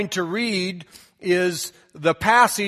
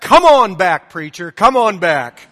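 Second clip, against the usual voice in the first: mock shouted punchline, louder; lady shouting; 7 dB louder than usual. Old lady shouts the preacher back, mock shout. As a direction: call him back from the back pew. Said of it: "the lady shouted from the back".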